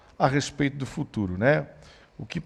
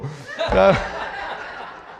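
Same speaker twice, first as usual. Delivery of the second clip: breathy unvoiced laugh; burst of laughter; 6 semitones higher than usual. Real, not acted. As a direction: let the laugh spill out. Risada após contar. (risada solta e sem voz)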